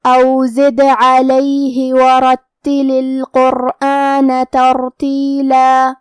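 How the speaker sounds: slow, drawn-out tajweed chant; measured Quran recitation; Quranic recitation. Shown as a demonstration. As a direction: recite each letter slowly with full tajweed. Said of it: "recites verse after explaining".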